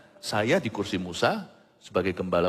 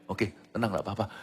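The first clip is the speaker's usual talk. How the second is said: soothing reply; 3 semitones lower than usual. Retold or imitated. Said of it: "Maksudnya itu".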